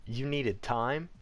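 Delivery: slow, incredulous challenge; retold disbelief. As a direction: question it slowly, as if catching out a lie. Retold confrontation over her lie.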